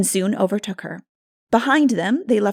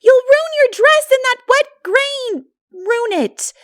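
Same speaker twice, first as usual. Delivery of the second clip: much higher, louder shrill yell; shrieking; 9 dB louder than usual. A narrator's reading. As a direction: scream a warning across the field. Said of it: "shrieked the latter".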